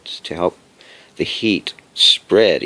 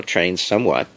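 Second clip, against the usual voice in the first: ordinary talk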